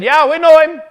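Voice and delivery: loud high scoffing reply; dismissive shout. Acted. Jebusites shouting back to David. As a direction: answer with a sneer.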